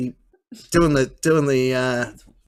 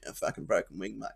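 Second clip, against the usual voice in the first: crow voice; 7 semitones lower, 14 dB quieter than usual. Retold or imitated. Crow answers in story.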